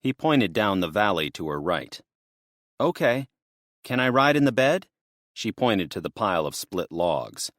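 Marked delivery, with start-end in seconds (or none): 2.8-4.9 higher, lightly voiced young woman; earnest worried young woman; a touch higher, anxious to get help. Destiny asking the men.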